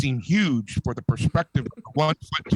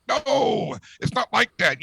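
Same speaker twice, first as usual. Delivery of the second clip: backpedaling reassurance; 7 semitones higher, slower than usual. Acted. Bartender backpedals to hurt pianist.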